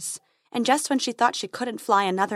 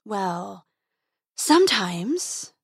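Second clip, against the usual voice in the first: embarrassed dragon; much slower than usual. A narrator's reading.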